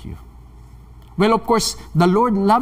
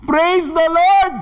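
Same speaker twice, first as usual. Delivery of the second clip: high, stretched-out mock cry; imitated praise shout; 10 semitones higher, 3 dB louder, much slower than usual. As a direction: cry it out high and slow, through imitated tears. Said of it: "Sumigaw pa rin ang praise the Lord".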